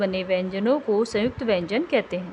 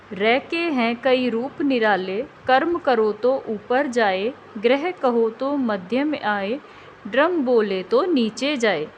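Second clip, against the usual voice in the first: slow, sing-song poem recital to pupils; children's rhyme; slower than usual. Shown as a demonstration. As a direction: recite the little verse in a teacher's lilt. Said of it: "कविता से तो आप जान ही गए".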